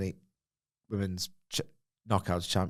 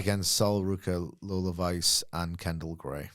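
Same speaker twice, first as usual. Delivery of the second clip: Ava impression; 4 semitones lower than usual. Mimicking the boss naming the opponents, deadpan impression. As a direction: list the names tonelessly, letting them sink. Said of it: "That's the Ava".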